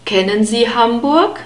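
Kennen with a short ä and unstressed final E. Shown as a demonstration. Teacher models the German question, short ä in Kennen. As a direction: open short ä in the first syllable of Kennen. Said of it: "We have a short ä sound in this word".

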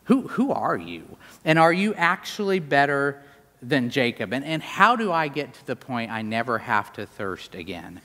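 sincere, unhurried question; legitimately asking. Acted. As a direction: ask it earnestly, really wanting to know. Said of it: "she's legitimately asking".

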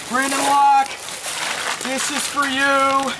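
gasping under freezing water; shocked by cold water; in ice cold water. Real, not acted. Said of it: "So much shrinkage".

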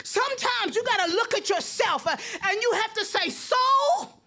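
preaching at full force. Acted. Pastor rousing the congregation, building to a shout.

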